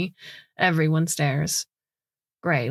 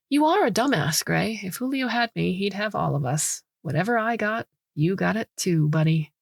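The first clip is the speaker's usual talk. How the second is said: mocking scorn; 3 semitones higher than usual. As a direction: needle him, eyes rolling. Mocking Gray with rolled eyes.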